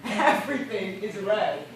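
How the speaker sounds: laughing madly while speaking of blood; unhinged laughing words; delirious laughter. Acted. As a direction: giggle through it, losing your mind. Delirious castaway sees red sea.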